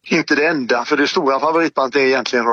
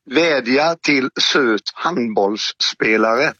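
slow repeat; 3 semitones lower, much slower than usual. Shown as a demonstration. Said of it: "repeats the clue slowly".

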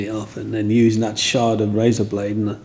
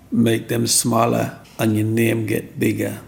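put-on slow, lightly done Jamaican accent; a hint of a Jamaican mum. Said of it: "in a Jamaican accent".

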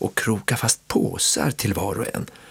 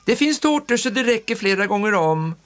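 high, soothing aunt voice; aunt calming kids; 11 semitones higher than usual. A narrator's reading. Aunt calming the squabbling children, high and soothing. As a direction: settle the children down.

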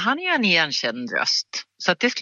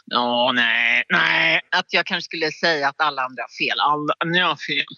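lightly voiced, grumbling contrarian figure; understated impression of a contrarian; Leif GW. Shown as a demonstration. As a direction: do a grumbling know-it-all who says everyone is wrong. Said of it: "Leif G W".

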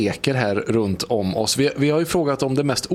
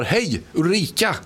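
higher-pitched drawn-out hello; calling out; 6 semitones higher, slower than usual. Real, not acted. Radio host calling to an unknown listener on the line, calling out. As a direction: call out a name hopefully, stretched and high.

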